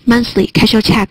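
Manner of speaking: slow, monthly and cash or check each stressed; stressed words. Shown as a demonstration. Teacher listing stressed words for students, slow and stressed. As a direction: give each key word its weight. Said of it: "听这个重音".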